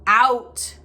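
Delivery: loud barked order; roaring. Acted. Uncle ordering the boys out, a loud roar. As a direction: throw the word at them. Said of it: "roared Uncle Vernon".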